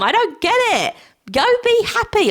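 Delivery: high, baffled outburst; exasperated. Real, not acted. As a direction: urge him on, frustrated and high. Exasperated at Cody.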